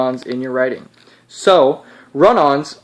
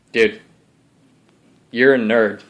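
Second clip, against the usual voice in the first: put-on Texas accent; 2 semitones lower than usual. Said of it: "I got a Texas accent because I'm his alter ego".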